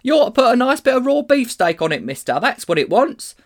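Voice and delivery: high, loud Cockney lad; butcher's boy. A narrator's reading. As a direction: pipe up with cheeky advice, high and loud. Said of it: "said a butcher's boy".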